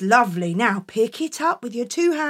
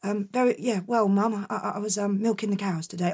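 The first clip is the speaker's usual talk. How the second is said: put-on sheepish boy; 4 semitones lower, 5 dB quieter than usual. Jack hesitating to Mum.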